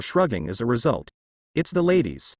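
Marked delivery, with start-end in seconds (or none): 1.6-2.3 victorious shout. Acted. Shu boasting to his friend about girls, lightly victorious cry. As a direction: crow it out with a hint of triumph. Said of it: "Shu shouted victoriously".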